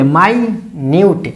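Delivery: "माइन्यूट" drawn out slowly as "mainiuʈ"; slow demo. Shown as a demonstration. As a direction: say "माइन्यूट" slowly, every sound clear. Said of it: "अगर आप माइन्यूट बोले तो इसका अर्थ".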